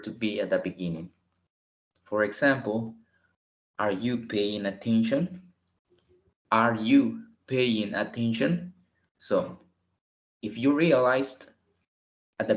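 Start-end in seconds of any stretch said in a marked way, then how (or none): 3.8-5.4 slow question tune rising at the end. Shown as a demonstration. Teacher modelling a question rising. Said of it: "debemos hacer ese énfasis en la pregunta". 6.5-8.7 slow, rising question stressing you. Shown as a demonstration. Teacher modelling a question, slow and rising. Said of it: "debemos hacer ese énfasis en la pregunta".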